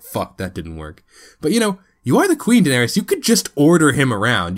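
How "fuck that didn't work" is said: muttered frustration. Retold or imitated. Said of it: "She's like".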